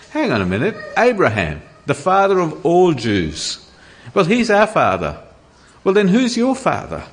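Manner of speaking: retold agitated objection, building in pitch; worked up. Pharisees objecting to Jesus about their father, getting worked up. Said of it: "they're getting all worked up".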